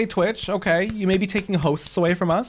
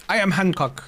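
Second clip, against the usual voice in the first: a hint of a foppish blonde boy; lightly voiced Hancock; 3 semitones higher than usual. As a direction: quasi senza cambiare voce, fa Hancock. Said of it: "give your best impression of Hancock".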